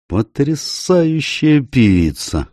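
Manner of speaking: high, slow, awed cry of delight; excited exclaim. A narrator's reading. Tony praising the singer, a high slow exclamation. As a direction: gasp it out in wonder, slowly. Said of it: "воскликнул Тони".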